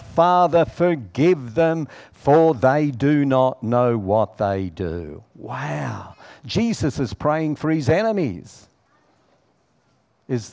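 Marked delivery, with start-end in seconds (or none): 0.0-5.2 crying out. Retold or imitated. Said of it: "and he cries out".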